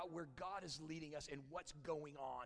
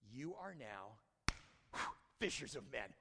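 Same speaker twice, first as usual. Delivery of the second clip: mock solemn pronouncement; 4 semitones lower than usual. Jesus instantly transforming Peter and Andrew, mock solemn. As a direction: pronounce it with a hint of mock ceremony.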